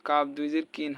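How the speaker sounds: কিন with a light front k; everyday k in কাপ and কিন; plain kaf. Shown as a demonstration. Teacher showing the confused letter, কিন with plain k. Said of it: "কিন বললে কিন্তু".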